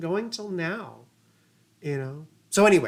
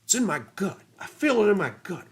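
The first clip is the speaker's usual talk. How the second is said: put-on Texas accent Bush; 2 semitones higher, faster than usual. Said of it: "And that Texas accent".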